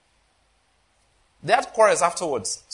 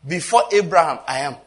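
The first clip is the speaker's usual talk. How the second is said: Before Abraham pushed out louder; emphatic louder quote; 5 dB louder than usual. Shown as a demonstration. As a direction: proclaim it, louder this time. Quoting Jesus, then repeating louder.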